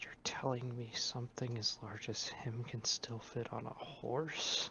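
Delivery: whispering under breath. Playing Talia after Callery departs, just before everyone heads outside, whispering under breath. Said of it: "just going to kind of whisper under her breath".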